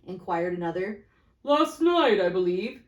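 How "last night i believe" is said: louder blunt businessman; lightly voiced fat merchant. Fat merchant shrugging off the death, loudly blunt. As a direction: dismiss it offhand.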